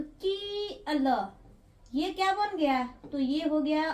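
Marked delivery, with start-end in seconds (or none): 0.0-1.2 की अ ल, each sound pulled apart slowly; a teacher spelling for children, slow and even. Shown as a demonstration. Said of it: "अगर की में अगर यहाँ पे ल लिख दिए".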